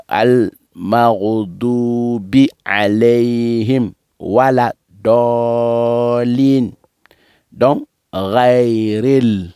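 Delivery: slow, measured Quranic recitation; teacher modelling the verse piece by piece; recitation demo. Shown as a demonstration. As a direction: stretch the long vowels on a level tone.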